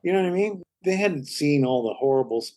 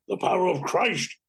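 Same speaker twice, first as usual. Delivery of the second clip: Max von Sydow impression; 3 semitones higher than usual. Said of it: "do stuff from it".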